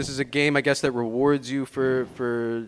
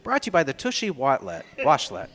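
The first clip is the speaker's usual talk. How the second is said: ad announcer voice. Pretend. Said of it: "commercial voice".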